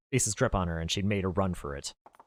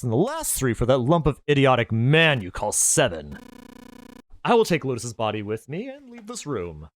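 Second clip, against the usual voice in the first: higher, mocking, smug killer voice; gloating villain; 4 semitones higher, 6 dB louder than usual. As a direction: savour every cruel word. Villain demands the woman.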